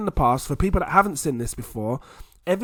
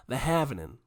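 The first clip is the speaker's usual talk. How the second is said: "halvening" in a softer attempted American accent; 5 dB quieter than usual. Shown as a demonstration. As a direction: have a clumsy go at American "halvening". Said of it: "but the American, I still go".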